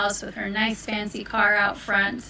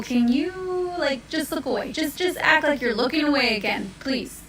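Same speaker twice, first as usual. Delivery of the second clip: pleading; 4 semitones higher than usual. Acted. Wolf begs man to look away.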